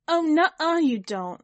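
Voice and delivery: high, loud refusal; protest. A narrator's reading. Kit refusing Charlie's farewell thanks, protesting. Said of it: "I protest".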